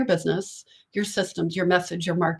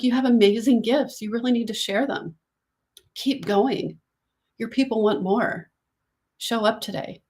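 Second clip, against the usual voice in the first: compassionate boss voice; 2 semitones higher than usual. Retold or imitated. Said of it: "Compassionate and committed boss voice".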